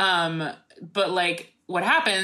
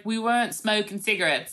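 put-on Australian accent; 4 semitones higher than usual. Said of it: "I don't know how to do an Australian accent".

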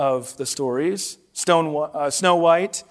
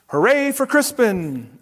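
cheerful shout; 5 semitones higher than usual. Acted. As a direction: cheer for the hero. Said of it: "everyone shouted".

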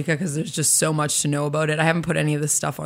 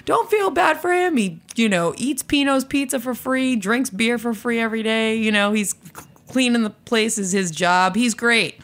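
coworkers voiced higher, breezy; higher mock coworker voice; 5 semitones higher than usual. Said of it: "they were like".

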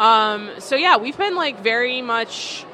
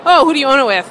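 higher, louder imitation of shocked strangers; mock shock; 6 semitones higher, 10 dB louder, faster than usual. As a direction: imitate someone taken aback, voice lifted. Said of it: "People are always shocked".

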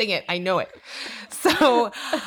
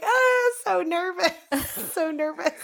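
high, hammed-up jittery voice; mock nervous; 10 semitones higher, slower than usual. Telling friends how she reacted to the cop, mock nervous. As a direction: play up the nerves with a laugh. Mock retelling her nerves.

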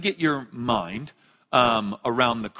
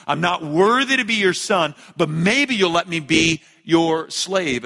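loud, high practised speech of a penitent son; rehearsed plea; 4 semitones higher, 6 dB louder than usual. Acted. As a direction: plead it like a prepared speech, slowing at the end. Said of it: "he's practicing this speech".

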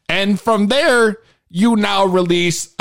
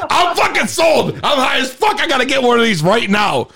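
hyped-up outburst; 6 semitones higher than usual. Retold or imitated. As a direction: blurt it out like an instantly sold customer. Retells his hyped reaction to promos.

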